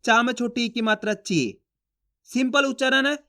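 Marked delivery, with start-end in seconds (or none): 1.2-1.4 ची said short, not drawn out; short chi sound. Shown as a demonstration. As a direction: clip the vowel of ची short. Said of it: "उच्चारण कैसे करेंगे?".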